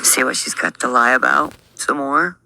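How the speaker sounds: hushed mocking aside, no voice; snide whisper. Reaction host whispering a jab before the clip plays, snide whisper. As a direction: whisper it with a sneer.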